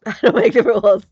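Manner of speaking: laughing. Real, not acted. Stitcher sums up the witch story, really laughing. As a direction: say it loudly through laughter.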